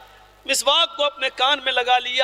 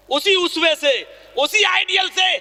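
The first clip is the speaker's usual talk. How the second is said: rising preacher's shout; 5 semitones higher than usual. Acted. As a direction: build it up to a cry. Preacher builds to a climax. (واعظانہ انداز میں بڑھتی ہوئی پکار)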